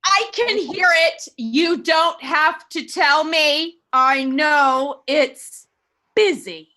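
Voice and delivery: slow furious complaint; angry outburst. Acted. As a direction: snap it out at the operator, dragging each word. Invalid snapping at the operator.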